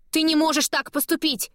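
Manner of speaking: high furious cry of protest; furious shout. A narrator's reading. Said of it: "кричу я в ярости".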